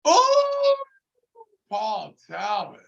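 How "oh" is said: long high-pitched ooh; impressed "ooh". Real, not acted. Reacting to Paul Talbot's name, impressed high ooh. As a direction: let out a drawn-out high ooh.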